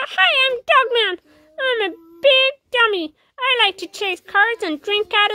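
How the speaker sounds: whiny, dopey mock voice; mock him like a dumb dog; mocking Dogman. Cat mocking Dogman in a dopey whine.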